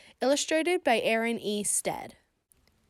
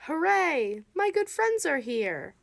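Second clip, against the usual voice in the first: high happy cheer; excited cheer; 4 semitones higher than usual. Acted. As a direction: greet friends with bright delight. Amos greets his animal friends.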